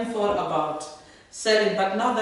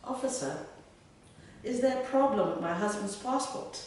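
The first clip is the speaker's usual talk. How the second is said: lightly hammed-up posh English lady; most posh accent; 3 semitones higher than usual. Wife knocks on immigration officer's booth, in a posh English accent. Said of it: "said in my most posh".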